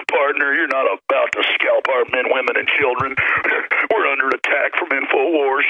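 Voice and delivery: a hint of a slow, folksy lawman; lightly put-on cowboy sheriff; mock deliberate drawl. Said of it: "It sounds so fake".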